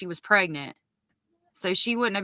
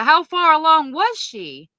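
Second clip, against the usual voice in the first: much higher and louder, urgent question; alarmed realization; 7 semitones higher, 6 dB louder than usual. Real, not acted. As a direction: ask it as the shock sinks in.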